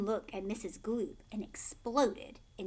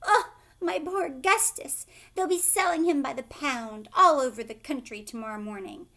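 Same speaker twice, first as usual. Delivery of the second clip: put-on loud, higher lament for her boy; distraught wail; 3 semitones higher, 8 dB louder than usual. A narrator's reading. Mother wailing over her lost son, loud. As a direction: wail it in despair.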